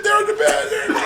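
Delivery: high, frantic pointing cry; frantic mock scream. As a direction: imitate her panicked yelling. Mother screaming while flying.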